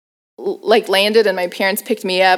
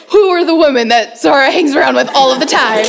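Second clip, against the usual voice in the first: louder, higher mock interrogation; eager prying; 5 semitones higher, 5 dB louder than usual. Mom grilling daughter about her women friends, eager prying. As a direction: imitate a mom demanding to know, loud and eager.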